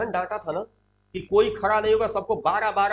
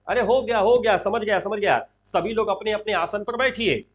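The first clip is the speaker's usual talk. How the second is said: moderately raised voice to the assembly; speaking out loud; 2 semitones higher, 3 dB louder than usual. Acted. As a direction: call out that it's enough, settle them down. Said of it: "फिर जोर से कहते हैं".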